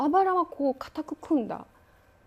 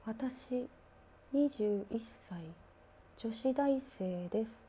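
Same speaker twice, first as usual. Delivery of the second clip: slow, softer monotone mumble of a ghost; eerie muttering; 6 dB quieter, much slower than usual. Retold or imitated. Ghost woman mumbling to herself in the lift, eerie slow. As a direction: recite it like a trance, slowly. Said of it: "なんかブツブツブツブツ".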